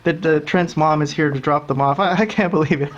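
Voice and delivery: lightly voiced overexcited announcer; mocking gushing commentators. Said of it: "And they're just like".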